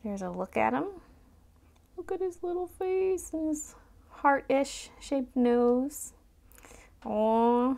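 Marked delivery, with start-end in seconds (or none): 2.0-7.7 high, slow cooing; overwhelmed by cuteness. Real, not acted. Cooing over cute figure.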